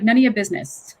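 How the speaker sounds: a quick, mock-upset New York retort; New York accent. Annoyed seller answering a question about New York, New York accent. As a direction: put on a touch of New York. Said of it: "like a New York accent comes out".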